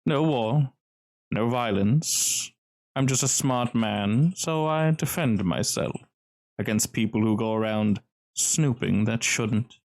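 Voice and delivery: composed, decisive self-justification; lightly voiced smooth, guarded host; smooth gentleman. Cellar's host defends his weaponry, lightly smooth and decisive. Game master plays smooth stranger.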